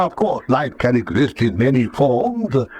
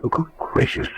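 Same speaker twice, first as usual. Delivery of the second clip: hushed gasp; 4 dB quieter than usual. Acted. Alarmed doctor sees strange photos.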